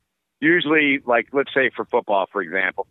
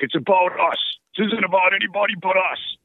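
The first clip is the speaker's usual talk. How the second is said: put-on high, pumped-up Boston accent coach; rally the team in a thick Boston accent; 11 semitones higher than usual. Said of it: "I'm trying to do a Boston accent and sound like him".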